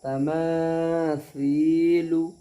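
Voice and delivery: तमासीलु with a lisped th for सी, long vowels; correct sa sound. Shown as a demonstration. Teacher modelling how to read it, slow th sound. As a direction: slowly recite तमासीलु, tongue-tip th instead of s. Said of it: "सा भी निकालना है".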